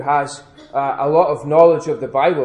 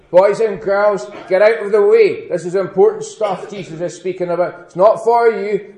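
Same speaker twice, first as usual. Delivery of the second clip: put-on louder, bossy shooing of the children; 3 semitones higher, 6 dB louder than usual. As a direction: shoo the kids off, loud and impatient. Disciples shooing the children away.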